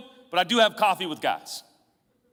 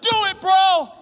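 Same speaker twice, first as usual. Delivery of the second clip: higher, louder, rushed hearty send-off; hurried loud pastor; 8 semitones higher, 7 dB louder than usual. Retold or imitated. Preacher imitating himself hurrying out of coffees, loud. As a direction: cheer them on and dash off. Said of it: "I was like".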